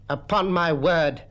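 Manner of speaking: lightly voiced stern schoolmaster, slowly; appalled schoolmaster. Mister Quelch reads the translation, slow and appalled.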